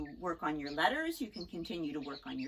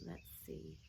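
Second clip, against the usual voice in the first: whisper; 10 semitones lower, 14 dB quieter than usual. Real, not acted. Teacher thinking aloud softly.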